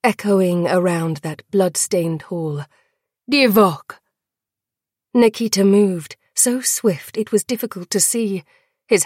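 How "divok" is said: cheer. Acted. Court cheers the name.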